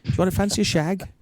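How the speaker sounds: high, loud, boozy-sounding send-up of the caller; mock caller voice. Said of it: "he's like".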